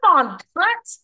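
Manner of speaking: high, loud giggling taunt; laughing as she teases her friend with a swear; laughing playful insult. Retold or imitated. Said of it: "the way you are laughing as you say".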